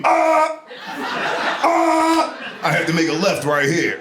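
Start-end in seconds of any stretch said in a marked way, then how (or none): 0.0-2.6 mock echolocation yell. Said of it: "just walk around screaming".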